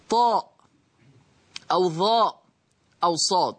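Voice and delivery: طاء ظاء صاد said with heavy emphatic sounds; the teacher names the heavy letters clearly. Shown as a demonstration. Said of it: "الشرط لتغليظ اللام".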